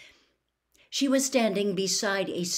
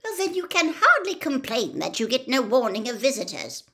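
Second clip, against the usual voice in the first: tartly; 6 semitones higher, 4 dB louder than usual. Acted. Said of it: "said Ogden tartly".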